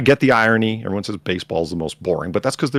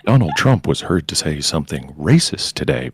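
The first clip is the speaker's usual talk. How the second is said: NPR voice; 3 semitones lower than usual. Retold or imitated. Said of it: "that's all N P R talks about".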